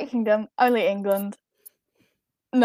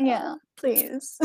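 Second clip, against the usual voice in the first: soft whispered plea; whispering; 6 dB quieter than usual. Real, not acted. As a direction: breathe it out.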